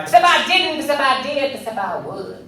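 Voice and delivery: heated denial, voiced high; fired-up girl. Barbie, fired up, arguing with the comic. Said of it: "She'd be like".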